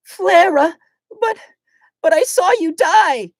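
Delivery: high, stunned disbelief; high shocked Glacia. Acted. Glacia seeing Flara alive, high and stunned. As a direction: gasp it out high.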